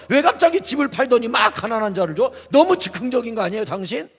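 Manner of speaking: incredulous, piling up one accusation after another; mock scolding onlookers. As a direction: imitate baffled critics firing off complaint after complaint. Voices onlookers scolding the believers.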